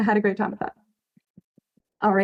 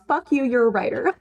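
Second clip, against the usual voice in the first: blunt, punchy encouragement; tough-love cheer; aggressively supportive. Real, not acted. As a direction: shove the compliment at them. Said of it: "aggressively supportive".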